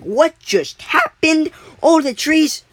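put-on slow, high, drawn-out quote in an Asian accent. Survivalist gaping at the frozen forest, in an Asian accent. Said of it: "I don't know why I'm speaking an Asian accent".

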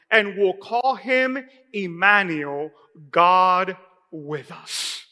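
slow, solemn reading from Isaiah; measured pulpit reading of prophecy; scripture reading. Acted. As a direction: read each word like a holy promise. Reads scripture aloud.

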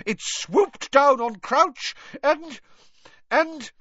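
high, loud, slow scream that breaks off. A narrator's reading. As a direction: scream until words fail you. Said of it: "she screamed".

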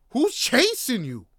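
loud, high, drawn-out question; exasperated shout. Acted. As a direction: call out slowly to a reckless driver. Exasperated outburst at reckless driver.

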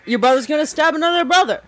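high, fast frat bro; breezy frat bro shrug. Pretend. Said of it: "talk like a frat bro".

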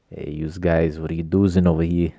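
lightly voiced New England gangster accent; vague Italian-gangster accent. Shown as a demonstration. Showing off his odd voice, vague gangster accent. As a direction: put on a hint of Italian-American gangster accent. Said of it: "vaguely Italian, New, New Eastern, New England gangster kinda".

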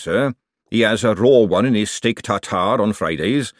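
a hint of a chef reeling off his offal menu; lightly played cook, explaining to a customer; lightly voiced chef. Chef offering Moist his offal menu, lightly in character. Chef lists what he cooks.

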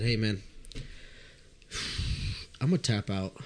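low, earnest retold admission; mock-solemn, sincere bowing out; most sincere. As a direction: drop it low and mean it. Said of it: "in the most sincere voice".

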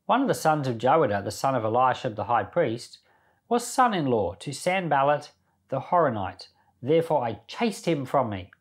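steady, earnest Bible reading voice; a plain devotional reading; scripture reading. Acted. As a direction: read the chapter aloud to the class, measured and clear. Reads Nehemiah chapter aloud.

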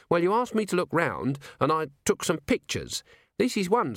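an earnest junior officer reporting; eager young dwarf. A narrator's reading. Littlebottom explains the pictures.

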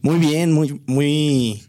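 booming greeting; a loud, bright hello; too loud. Real, not acted. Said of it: "sonó alto".

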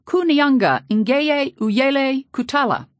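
high, loud yelled Kikongo words. A narrator's reading. Villagers yelling in the church, loud yells. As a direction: call them out across the church. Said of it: "two men yelled".

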